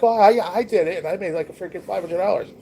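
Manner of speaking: high, loud mocking brag voice; mock bragger. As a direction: imitate a smug scammer bragging. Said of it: "you talk to people like".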